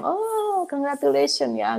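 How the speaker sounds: mock realtor, suddenly delighted; excited congratulations. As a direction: gush out the congratulations like a thrilled realtor. Realtor reacts after her calm reply.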